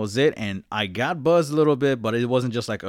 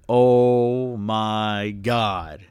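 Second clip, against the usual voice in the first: 1 drawn-out oh my god; 3 dB louder, much slower than usual. Retold or imitated. Relief after dad appears.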